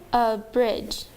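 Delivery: A BRIDGE slowly, in two separate beats; bounced syllable by syllable. Shown as a demonstration. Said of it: "I'm going to bounce them".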